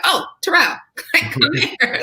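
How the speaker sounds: high, excited mock call-out; re-enacted high call to a friend in a crowd; calling someone over. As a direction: wave them over with a high-pitched greeting.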